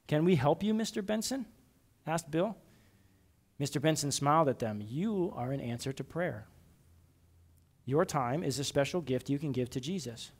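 gentle storybook reading with lightly voiced characters; children's Bible story read aloud. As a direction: read the story to the kids, lifting into the characters' lines.

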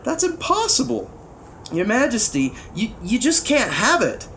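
put-on high, pleading page boy; alarmed objection to a king; shocked protest. A narrator's reading. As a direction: protest in disbelief, stumbling slightly.

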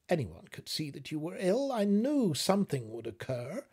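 a hint of a fretting wife scolding gently; worried wife. Wife pleads with her husband.

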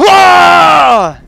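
loud high cry; sharp yell of pain. Real, not acted. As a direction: yelp as the blow lands. Hit during the fight. (grito agudo de dolor)

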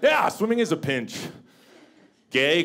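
ordinary delivery

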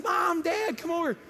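high, loud call to parents; excited child yelling. Retold or imitated. Little boy calling parents over to the cage, excited yell. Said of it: "He yells and says".

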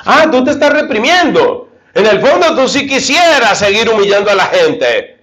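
a scheming tempter who insists he still wants to humiliate people; sly tempter. Acted. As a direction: taunt him as the voice of temptation. Preacher voices the tempter.

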